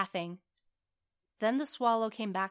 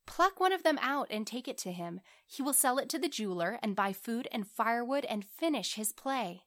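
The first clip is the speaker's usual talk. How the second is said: slightly raised storybook prince voice; lightly voiced prince, earnest; 3 semitones higher than usual. Prince tells swallow of the cold writer, earnest. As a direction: describe it earnestly in a lightly lifted voice.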